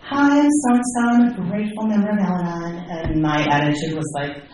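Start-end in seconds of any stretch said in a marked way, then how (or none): 0.0-2.8 lightly mocking, pitched up member greeting; a hint of chirpy meeting regular; mock cheerful member. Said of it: "they'd say things like".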